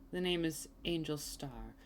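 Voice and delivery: sultry service-desk politeness, slowed down; customer service voice. Acted. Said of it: "she's back to her, like, customer service voice".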